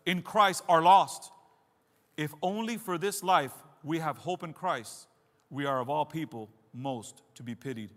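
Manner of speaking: weighty, deliberate preacher's reading; emphatic scripture reading. Real, not acted. Preacher reading Paul's words on resurrection, emphatic. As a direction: declaim the verses, leaning on key words. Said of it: "I'm gonna give it emphasis".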